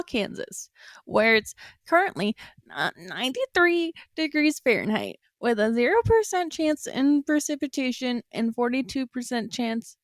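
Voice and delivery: field reporter. Pretend. Reporter live from Wichita to the hosts, mock newscast breaking into giggles. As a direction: play an on-scene reporter trying not to laugh. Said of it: "to reporter Geese Peep out on the field".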